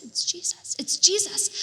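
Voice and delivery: breathy whispered murmur. Retold or imitated. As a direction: whisper it like a crowd. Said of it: "a whispering from breathy voices".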